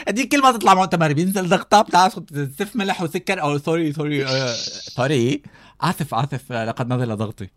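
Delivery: high, fainting diva apologizing; Bushra Lances impression. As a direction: play the woozy star who lost her sugar. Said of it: "مثل بشرى لانسز".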